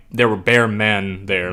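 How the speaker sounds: said slowly, each word laid out; slow demo of London slang; slow demo of a London slang line; slow London slang example. Shown as a demonstration. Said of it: "They say, like".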